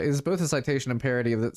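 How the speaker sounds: attempted German accent, lightly done. Orc artist explaining the monument, attempted German accent. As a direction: have another go at a German accent. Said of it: "not gonna do accents now".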